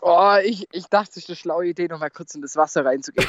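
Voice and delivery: shivering, gasping from the cold water; shaky breath after an icy dip; teeth chattering. Real, not acted. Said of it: "wie er schnell und tief das Atmen anfängt". (zitternd vor Kälte, mit klappernden Zähnen)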